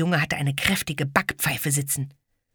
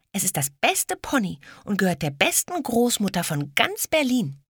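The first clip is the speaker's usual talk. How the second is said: put-on proud little girl; 5 semitones higher than usual.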